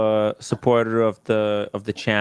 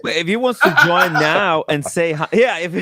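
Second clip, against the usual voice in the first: laughing while talking; 5 semitones higher, 5 dB louder than usual. Real, not acted. Laughing while inviting the guest.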